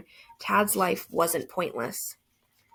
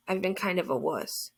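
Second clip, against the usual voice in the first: subdued confession; 3 dB quieter than usual. Acted. Boy admitting he's emotional at friend's grave, subdued. Narrator owns up to being emotional.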